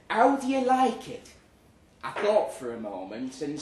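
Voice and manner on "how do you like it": higher, louder imitated colleague; mimicking her question. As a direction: voice a sweet polite woman asking. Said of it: "She said".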